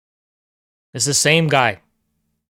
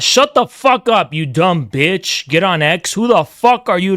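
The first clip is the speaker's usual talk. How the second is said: slow, drawn-out cussing at chat; slow angry put-down; angry rant; 3 semitones higher, slower than usual. Real, not acted. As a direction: spit it slowly at a troll. Ranting at chat user.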